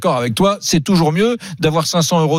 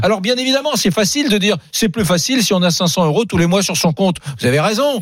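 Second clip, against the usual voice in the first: agacé; 4 semitones higher than usual. Real, not acted. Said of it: "pas la peine de te mettre en colère".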